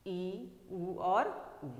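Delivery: "ई" and "उ" each sounded slowly and clearly; slow deliberate vowel sounds; slow vowel demo. Shown as a demonstration. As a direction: enunciate every vowel slowly for the class. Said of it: "जैसे हम ई बोलते हैं".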